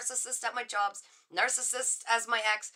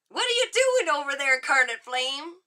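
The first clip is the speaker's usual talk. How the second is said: loud, high, astonished question; stunned, delighted, much higher and louder; amazed call-out; 4 semitones higher, 7 dB louder than usual. Real, not acted. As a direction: call out to a viewer who just read your mind. Amazed at viewer's card reading.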